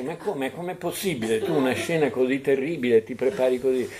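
imitated huffy protest; retold indignation. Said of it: "e lei si incavola".

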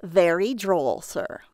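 lightly voiced high-pitched clerk; a hint of a put-on clerk voice. A narrator's reading. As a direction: say it as a mildly affected hotel clerk. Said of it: "said in a high-pitched voice".

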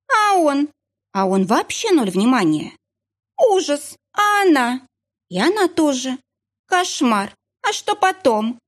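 high, breathless gossip hungry for details; eager gossip. A narrator's reading. Eager gossip asking for more. (жадная до сплетен, высоким голосом)

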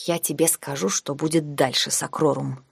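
заметно тише, на выдохе; устало, будто сил спорить уже нет; устало выдохнула. Acted. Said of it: "выдохнула я устало". (тихо и устало на выдохе)

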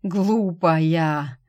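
dying man groaning at her stubbornness; doomed groan. Acted. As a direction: moan it as if all is already lost. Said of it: "обречённый стон".

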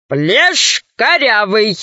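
slow pointed code word; slow deliberate. Acted. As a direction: drop the hint slowly.

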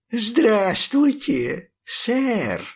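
high, very slow wheezed hello; hoarse pirate greeting. A narrator's reading. Red-haired pirate greets the boy, slow and wheezing. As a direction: drag the greeting out like a rasping old sea dog. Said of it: "прохрипел рыжий пёс".

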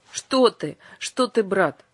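a fearful plea to his brother; frightened. Acted. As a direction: hurry to take it back in alarm. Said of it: "испугался Юлиус".

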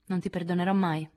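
fredda e ferma; severa. Acted. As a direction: chiude ogni discorso. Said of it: "fu la severa risposta". (Jo risponde ad Amy severa e fredda)

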